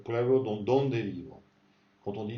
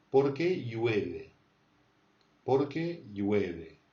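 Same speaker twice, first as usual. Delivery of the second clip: slow model answer; much slower than usual. Shown as a demonstration. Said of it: "teacher models slow answer".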